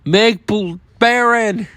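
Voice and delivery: high-pitched pretend scream for a card; hammed-up battle-cry yell at moderate volume; mock scream. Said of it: "That's what this card's screaming".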